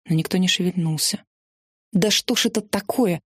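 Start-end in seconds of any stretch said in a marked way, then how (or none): 1.9-3.2 mildly indignant narrated outburst; a touch of exasperated protest. A narrator's reading. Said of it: "возмутилась я". (с лёгким возмущением)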